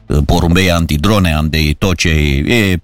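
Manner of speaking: low, deadpan mock reassurance; ironic. Real, not acted. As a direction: list the safeguards with dry irony. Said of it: "ești ironic".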